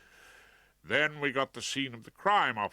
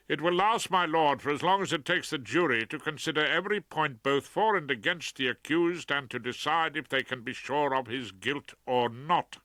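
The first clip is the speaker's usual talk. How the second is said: louder, firm retort to the judge; defiant barrister; 4 semitones higher, 4 dB louder than usual. Acted. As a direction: stand up to the judge. Rumpole defying the judge.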